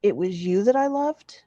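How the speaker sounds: measured, hushed-leaning narration with long pauses; literary story reading. A narrator's reading. Author reads a story of lost love to listeners, measured literary narration. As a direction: read it aloud as lyrical, unhurried prose.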